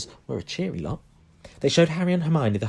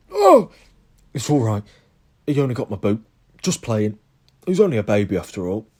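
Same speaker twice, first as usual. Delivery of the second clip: Hagrid; 8 dB louder than usual. A narrator's reading. Hagrid brushing off the bite.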